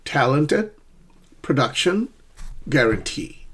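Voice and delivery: TAL in "Talented", DUC in "production", TEE in "guarantee"; first, second, then last syllable stressed; stress pattern models. Shown as a demonstration. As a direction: list three words, rising, rising, then falling. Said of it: "but I'll do it again".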